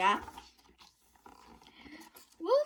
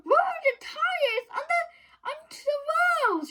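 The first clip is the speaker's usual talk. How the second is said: high, louder shouted order; 5 dB louder than usual. A narrator's reading. Girl shouting orders to her friends. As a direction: call the plan out to the others. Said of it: "she shouted".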